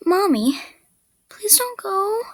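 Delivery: high sad plea, thinning toward a whisper; sad audition read. Acted. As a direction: beg sadly in a high voice, losing voice at the end. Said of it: "finally we have sad".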